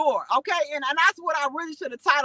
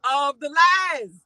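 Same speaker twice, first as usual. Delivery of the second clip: tired; 3 dB louder, much slower than usual. Real, not acted. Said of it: "y'all can see that I'm tired".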